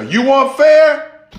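high, slow, pointed question; drawn-out acted challenge; challenging professor. Professor answering the student who cried unfair, challenging.

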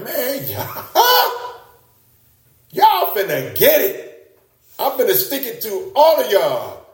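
hammed-up brother-bashing boast; mock vengeful threat. Preacher mocks a vengeful Joseph with a laughing threat. Not like.

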